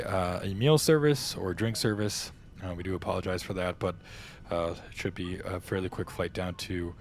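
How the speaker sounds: airline captain's PA announcement; pre-departure announcement. Pretend. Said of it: "you guys ready for this, this, uh, pre-departure announcement?".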